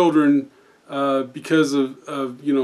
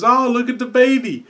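put-on high sweet old lady; 7 semitones higher than usual. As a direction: coo like a doting grandma. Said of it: "she goes".

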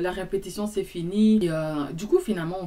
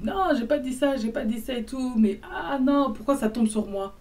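higher-pitched mock distress; dramatic lament; 5 semitones higher than usual. Man bemoans her virginity, imitated dramatic lament. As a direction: protest as if disaster struck. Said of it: "il parlait comme si".

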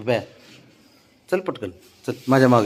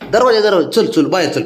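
urging call; 9 semitones higher, 7 dB louder than usual. Real, not acted. Urging the pet out the door.

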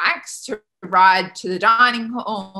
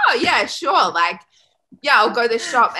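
higher, lightly mocked teenage eagerness; eager agreement; 4 semitones higher, 4 dB louder than usual. Sixteen-year-old agrees to go to the shop, eager. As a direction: agree instantly, pitched up and carefree.

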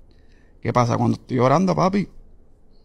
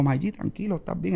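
soft, slightly raised reassuring voice; calming reassurance; 4 semitones higher, 8 dB quieter than usual. Retold or imitated. Worried manager soothing his friend at the hospital, soft retold reassurance. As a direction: settle him down gently, keeping it hushed. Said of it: "Fran preocupado".

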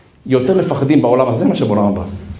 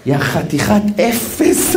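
self-scolding; 5 semitones higher, much slower than usual. Real, not acted. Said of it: "אני אומר את זה ברצינות".

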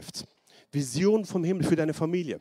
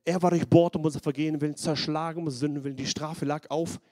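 schneller, eifriger Bibelvers, laut gelesen; verkünde den Vers mit Nachdruck; Bibelvers verkünden. Acted. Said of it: "Jesaja dreiundfünfzig, Vers fünf". (eifrig vorgelesener Bibelvers)

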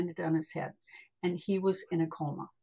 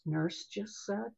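softer retold aside to God; quietly under breath; 5 dB quieter than usual. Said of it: "I said quietly under my breath".

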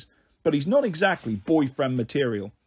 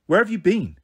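a louder, pointed demand; 3 semitones higher, 4 dB louder than usual. Acted. Ellie confronting her family, a sharp demand. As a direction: insist on an answer. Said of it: "I demanded".

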